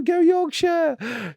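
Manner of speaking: terrace shout. Pretend. Flag-waving fan cheering Yorkshire, in a slow high bellow. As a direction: roar it out like a football chant. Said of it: "I'm shouting".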